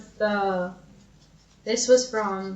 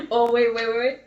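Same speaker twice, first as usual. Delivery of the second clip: urgent wait; 3 semitones higher, 4 dB louder than usual. Real, not acted. Urgently stops the reading.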